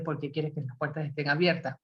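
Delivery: pregunta más grave y suave, sin reproche; pregúntalo de corazón, sin imponer; pregunta honesta. Shown as a demonstration. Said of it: "lo dices de una manera honesta". (pregunta honesta y suave, más grave)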